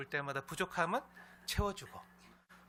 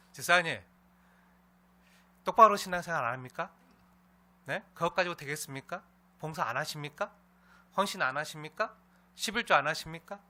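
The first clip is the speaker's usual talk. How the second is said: scolding; 3 semitones higher, 7 dB louder than usual. Pretend. Pastor pretends to rebuke a deacon for slack faith, scolding. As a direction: drive each question home, louder, like a reproach. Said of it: "맨날 혼내고 볼 때마다".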